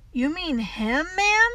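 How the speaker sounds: put-on gentle boy checking with the teacher; gently. A narrator's reading. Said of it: "as he said gently".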